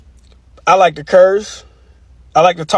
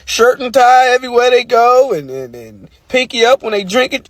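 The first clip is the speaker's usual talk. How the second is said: uppity talk; 4 semitones higher than usual. Retold or imitated. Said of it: "talking all uppity".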